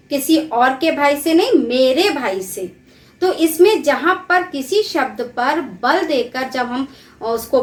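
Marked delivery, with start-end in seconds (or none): 1.5-2.7 मेरे said slowly and with weight; slow down and push मेरे; stress on मेरे. Shown as a demonstration. Teacher repeating the example slowly, weight on मेरे. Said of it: "मेरे शब्द पे मतलब बलाघात".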